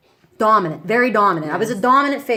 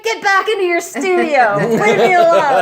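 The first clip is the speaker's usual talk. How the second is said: retold shout; 10 semitones higher, 8 dB louder than usual. Shooing nosy coworker out, retold.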